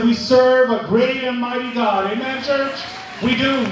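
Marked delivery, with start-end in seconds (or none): 0.0-2.1 louder repeat. Shown as a demonstration. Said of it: "I said".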